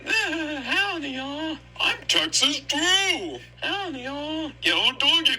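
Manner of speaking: high, slow Texan cowboy greeting; a cartoon Texan howdy, up high; cowboy drawl. Sandy greeting like a Texan cowboy, high Texan drawl. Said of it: "like a cowboy slow voice".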